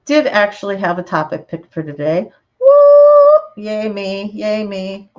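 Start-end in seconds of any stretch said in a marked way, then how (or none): 2.6-5.1 self-cheer. Real, not acted. Cheers herself for having topic.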